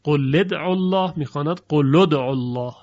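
«قل» با لام مضموم: قلُ ادعوا الله; لام «قل» را با ضمه بخوان، به روایت دوری; Duri reading. Shown as a demonstration. (قرائت دوری از ابو عمرو، لام «قل» مضموم)

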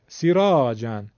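سیراجن with brief 'si', drawn 'raa'; slow, but no stretch on 'si' in سیراجن; short kasra. Shown as a demonstration. Teacher showing kasra on seen, short 'si' in سیراجن. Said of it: "سین کسره داره".

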